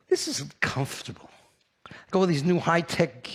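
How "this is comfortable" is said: whisper. Real, not acted. Savoring the hotel comfort.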